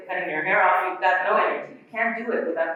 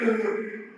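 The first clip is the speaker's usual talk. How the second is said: lifter's gasp; 2 semitones higher than usual. Shown as a demonstration. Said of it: "What does the body do?".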